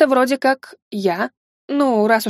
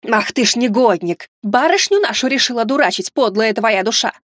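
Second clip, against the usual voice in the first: angry scolding. Acted. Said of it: "зыркнула яростно на юнца и заявила".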